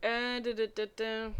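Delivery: ordinary delivery, nothing marked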